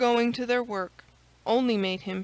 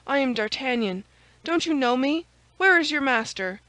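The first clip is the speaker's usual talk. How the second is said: urgent; 4 semitones higher, 6 dB louder than usual. A narrator's reading. Urgent arrival at friend's door.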